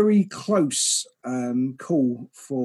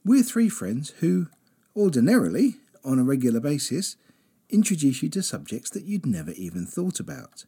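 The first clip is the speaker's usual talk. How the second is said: radio presenter. Acted. Presenter intro and sponsor read.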